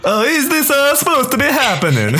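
raspy high smoker's voice; heavy smoker voice. Acted. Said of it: "that's why he sounds like this".

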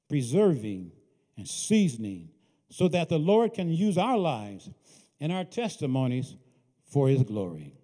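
loud, rhythmic pulpit preaching; fiery preaching. Acted. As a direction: drive it home like a preacher. Preaching at full force.

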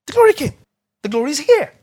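high, loud proclamation; preacher's high exultant cry; emphatic declaration. Real, not acted. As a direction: ring it out like a triumph.

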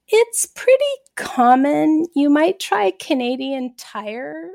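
slow, lightly voiced clerk brushing her off; a touch of polite disdain, slowly; condescending clerk. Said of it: "And she's like".

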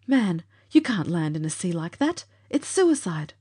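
alarmed shout at the pilot not to land; alarmed warning. Acted. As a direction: shout a warning over the storm. Narrator warns pilot of crash.

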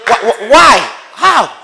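loud, stammering disbelief, rising high; mock shocked protest. Shopper told final sale, sputtering loud disbelief. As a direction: sputter in outrage at the cashier.

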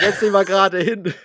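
giggling through the words; laughing. Pretend. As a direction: laugh while bossing her around. Mock telling great-grandma to sit straight.

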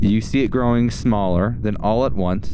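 dramatic scene-setting over music; game master narration. A narrator's reading. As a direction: paint the falling pod vividly. GM sets the descent scene.

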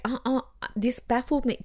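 stammering, puzzled demo; baffled. Shown as a demonstration. Showing how to talk when something baffles you, baffled. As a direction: falter as if you can't work it out. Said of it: "Talk with a baffled kind of tone".

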